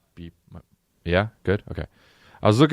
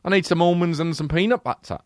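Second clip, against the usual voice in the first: high, fussy British actor; British accent; 5 semitones higher than usual. Retold or imitated. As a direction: demand snacks in mock British.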